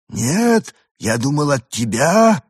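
alien voice. A narrator's reading. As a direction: answer in a lightly alien voice. Arthur's alien voice. (голос пришельца)

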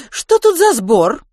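high, slow, suspicious woman's voice; strict vice-principal catching boys outside; stern teacher. A narrator's reading. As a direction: interrogate like a strict head teacher.

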